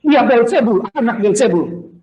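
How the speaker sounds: mild mock yell of accusation; imitated crowd shout. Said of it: "Ketika orang teriak-teriak". (menirukan teriakan massa)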